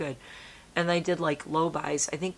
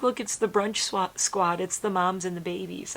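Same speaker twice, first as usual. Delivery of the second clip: higher, bright and louder; cutesy announcing; 4 semitones higher, 3 dB louder than usual. Retold or imitated. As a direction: show off the deer to dad. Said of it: "And I'm like".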